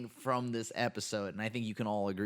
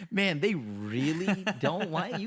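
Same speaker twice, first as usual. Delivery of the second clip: imitating Yuji; 6 semitones higher, 4 dB louder, slower than usual. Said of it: "Yuji just goes".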